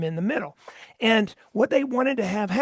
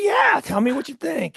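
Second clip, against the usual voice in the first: retold call; 5 semitones higher, 4 dB louder than usual. Trump quoted calling out.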